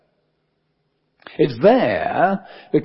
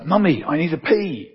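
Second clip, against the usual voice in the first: mildly hammed-up small boy, higher; over-loud child; 5 semitones higher than usual. Four-year-old to his mum in church, imitated over-loud announcement. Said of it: "in a rather over loud voice".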